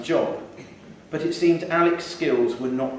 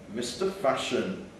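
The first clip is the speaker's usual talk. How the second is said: wry inner thought; 2 semitones lower, 5 dB quieter than usual. Acted. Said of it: "thought Alec".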